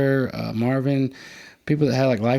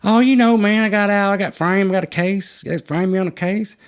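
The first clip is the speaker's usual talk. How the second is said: much higher, louder, eager excuses; excited explaining; 9 semitones higher, 6 dB louder than usual. Retold or imitated. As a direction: rattle off the story with big energy. Friend explains his situation.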